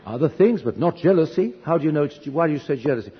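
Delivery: acted-out defensive husband; indignant denial. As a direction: protest the accusation in a retold marital spat. Retold quarrel with his wife.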